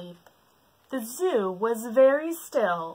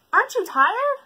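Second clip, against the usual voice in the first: high, wondering question; 8 dB louder than usual. Acted. Giraffe to the bird, wondering. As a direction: ask in disbelief.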